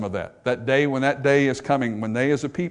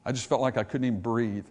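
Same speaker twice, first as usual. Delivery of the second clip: stunned by bad news; 3 semitones lower, 6 dB quieter than usual. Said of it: "you hear them say something like this".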